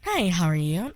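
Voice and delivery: lilting put-on girly hello; light feminine greeting; feminine voice demo. Shown as a demonstration. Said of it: "So be like".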